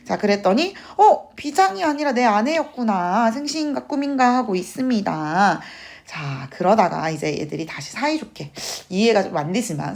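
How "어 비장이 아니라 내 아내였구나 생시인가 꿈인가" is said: higher, amazed discovery; mock surprise. Husband realizing the officer is his wife, in mock amazement. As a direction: act out a startled realization, a bit hammed-up.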